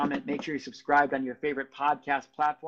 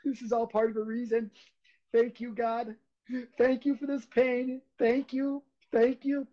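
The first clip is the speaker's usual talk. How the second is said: grateful inner voice; 7 semitones higher than usual. Retold or imitated. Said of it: "I'm telling myself in my head".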